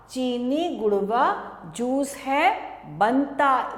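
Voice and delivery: sing-song classroom chant; rhyme recitation. Acted. Teacher chanting a rhyme to small children, sing-song. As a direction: recite it in a bouncing rhythm for kids.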